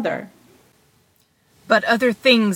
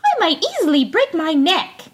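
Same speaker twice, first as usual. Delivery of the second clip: Tom Thumb; 6 semitones higher than usual. A narrator's reading.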